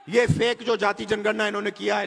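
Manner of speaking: shouting. Real, not acted. Denouncing fake caste census at rally.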